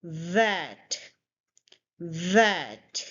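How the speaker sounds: THAT with a buzzing first sound; voiced th demo. Shown as a demonstration. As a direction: model THAT twice, slowly, falling. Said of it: "your voice will vibrate a little".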